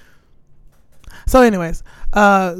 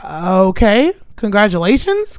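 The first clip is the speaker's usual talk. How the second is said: "congratulations" with a doubtful upward inflection; questioning congratulations; slower than usual. Retold or imitated. Replying to his baby news, questioning upturn on "congratulations". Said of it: "question mark, upward inflection".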